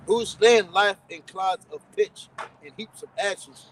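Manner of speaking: measured, declamatory Bible reading; scripture reading. Real, not acted. Reads scripture aloud.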